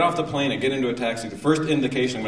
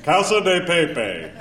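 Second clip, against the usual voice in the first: slow, syllable by syllable Spanish; mock American Spanish; sounded-out Spanish; 7 semitones higher, 4 dB louder, slower than usual. Shown as a demonstration. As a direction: sound out every vowel. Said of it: "You go".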